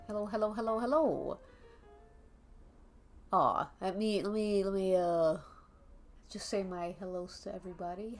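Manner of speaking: normal talking voice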